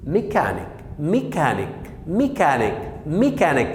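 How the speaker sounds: "ميكانيك" with K in the middle and at the end; two K sounds. Shown as a demonstration. Teacher showing both spellings sound K, repeated word drill. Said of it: "وجاية السي في الآخر نطقت كي".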